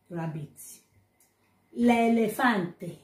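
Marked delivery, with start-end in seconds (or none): 1.7-3.0 slow teaching demo. Shown as a demonstration. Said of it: "That is elephant".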